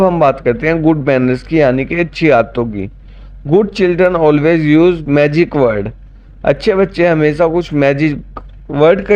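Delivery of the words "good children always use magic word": slow dictation. Shown as a demonstration. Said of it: "teacher reads English slowly".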